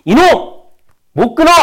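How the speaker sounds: high, loud scolding shout. Acted. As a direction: shout down the demon inside you. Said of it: "마귀를 스스로 꾸짖으며". (마귀를 꾸짖는 큰 호통)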